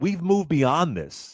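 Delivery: slow, mocking reassurance; mock dismissive claim. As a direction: drag it out like a smug denial. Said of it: "Every era they've all said".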